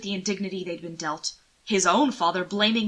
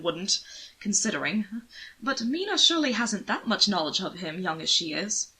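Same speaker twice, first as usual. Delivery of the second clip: wry nobleman; 4 dB louder than usual. Acted. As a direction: sneer mildly at his cousin. Anthony mocks his cousin.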